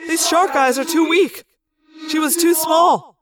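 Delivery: exasperated, echoing complaint; frustrated yell. A narrator's reading. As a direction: vent at being unable to see. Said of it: "Axe yelled in frustration".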